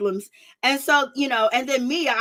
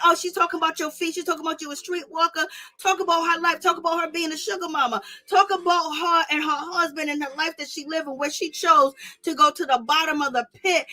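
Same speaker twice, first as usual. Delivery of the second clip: mocking rant; 4 semitones higher than usual. Mocking what Candace might say.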